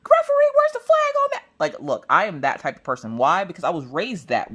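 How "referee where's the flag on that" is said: high, loud yelling at the field; rowdy sports-parent shouting; loudest parent on bleachers. Retold or imitated. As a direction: heckle the referee from the stands. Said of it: "I'm the loudest parent on the bleachers".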